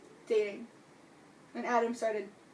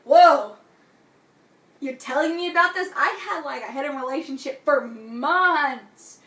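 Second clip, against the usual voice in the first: mock surprise; 7 dB louder than usual. Gansey reacting to kiss news.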